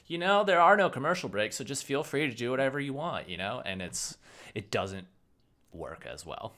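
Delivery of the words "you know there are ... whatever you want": higher and louder, carefree mock announcer; breezy Netflix voice. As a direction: play Netflix as a shrugging, laid-back salesman. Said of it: "Netflix is just like".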